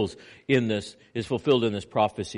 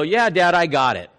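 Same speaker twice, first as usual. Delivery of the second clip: put-on cocky kid; 4 semitones higher, 6 dB louder than usual. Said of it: "they get all cocky".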